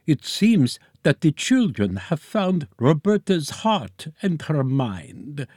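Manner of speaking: put-on timid old professor, slowing down; frail and hesitant, fading. A narrator's reading. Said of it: "spoke in a voice much more timid".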